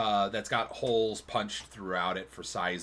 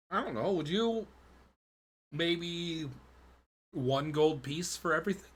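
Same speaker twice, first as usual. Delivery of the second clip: haggling shopkeeper; 4 semitones higher than usual. Acted.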